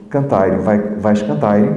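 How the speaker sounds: fazeire and cantaire in a European Portuguese accent, with a vowel added after the r. Shown as a demonstration. Teacher imitates a European Portuguese accent for the class. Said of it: "eles resolvem acrescentando uma vogal".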